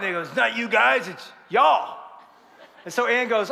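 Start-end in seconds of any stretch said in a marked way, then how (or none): 0.4-2.0 Southern correction. Retold or imitated. Crowd corrects the visiting speakers.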